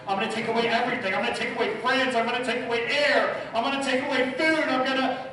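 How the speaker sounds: piling on threats, getting carried away; building rant. Retold or imitated. Father in bed plotting his son's punishment, building up.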